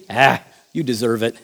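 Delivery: lightly mock a pampering voice; mock indulgent. Voicing modern indulgent culture.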